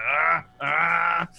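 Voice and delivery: high ah ah warning; guard warning. Acted. Guard warns the prisoner off, high and sharp. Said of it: "He's like".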